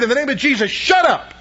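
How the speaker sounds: mock outburst, pitch leaping on the last words; exasperated order, jumping high at the end; retold frustrated command. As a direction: act out fed-up rebuke without really shouting. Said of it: "finally, out of my frustration".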